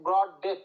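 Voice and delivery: ব্রড and ডেথ equally weighted; stress on both words. Shown as a demonstration. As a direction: give both ব্রড and ডেথ a firm beat. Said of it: "দুটো important word আছে".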